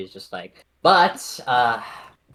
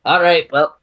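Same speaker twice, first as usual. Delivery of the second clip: put-on French accent; 5 semitones higher, 8 dB louder than usual. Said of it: "he sounds very French".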